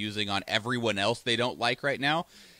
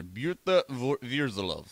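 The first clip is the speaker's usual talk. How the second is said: Pyotr Verzilov with a hammed-up Russian accent; bad Russian accent; slower than usual. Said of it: "throw that bad Russian accent on there".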